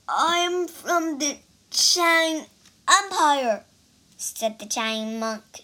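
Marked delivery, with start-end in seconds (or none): 0.1-3.6 shaking with fear. Acted. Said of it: "shaking with fear".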